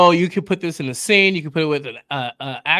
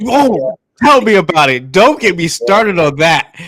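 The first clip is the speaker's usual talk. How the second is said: mock exasperation; 7 dB louder than usual. Real, not acted. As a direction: stretch out "Don't" in exasperated agreement. Mock-exasperated agreement with co-host.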